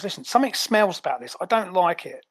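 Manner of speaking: suspicious Cockney henchman; wary Cockney grumble; Cockney ape. Acted. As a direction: voice distrust in a Cockney accent. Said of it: "I love that he's a Cockney ape".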